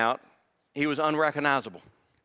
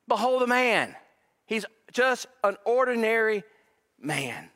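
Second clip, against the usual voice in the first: emphatic proclamation; 8 semitones higher than usual. Retold or imitated. Preacher repeating Pilate's words to the congregation, raised and ringing. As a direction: proclaim it to the whole room.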